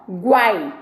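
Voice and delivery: "guai" glided together as one syllable; "guai" as a single joined sound. Shown as a demonstration. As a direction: say "guai" in one beat, the i not separated. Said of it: "é uma sílaba junto".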